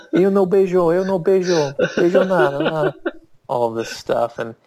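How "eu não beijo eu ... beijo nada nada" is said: high, loud frantic protest; panicked denial. Retold or imitated. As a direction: replay a flustered denial, pitch way up. Retold panicked denial in Portuguese.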